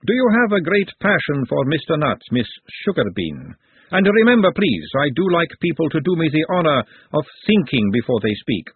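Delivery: lightly voiced grand lady; composed lady, pointed. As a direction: question pointedly, then gently admonish. Woman quizzes Glenda.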